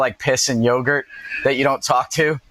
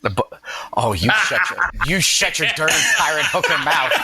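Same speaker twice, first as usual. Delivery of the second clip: put-on Boston accent. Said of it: "a Boston accent".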